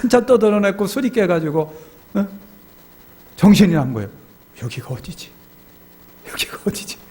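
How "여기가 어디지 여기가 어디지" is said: very soft, half-whispered bewilderment; dazed murmur. Retold or imitated. Deacon sobering up, unsure where he is, dazed. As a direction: act out coming to, lost and hushed.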